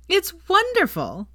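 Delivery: very high, slow, delighted; cheerful. Acted. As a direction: gush with delight, drawn out. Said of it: "said Veronica cheerfully".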